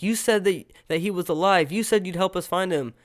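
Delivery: high-pitched mock accusation; pissed off. Mike turns on Elle after the body is found, pissed off. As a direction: throw it out as an upset accusation. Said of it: "he gets pissed off".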